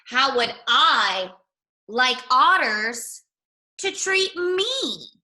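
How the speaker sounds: slow, word by word, rising high on me; slow pondering. Shown as a demonstration. Rabbit ponders the saying aloud, slow and drawn out. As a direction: mull each word over slowly. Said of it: "repeated slowly, pondering".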